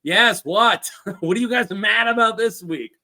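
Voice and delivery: fed up with the feuding again; annoyed lord. Retold or imitated. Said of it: "and it's like".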